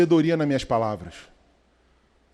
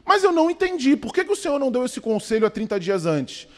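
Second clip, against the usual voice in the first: puzzled mother; 4 semitones higher than usual. Retold or imitated. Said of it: "ela virou pro sábio e falou".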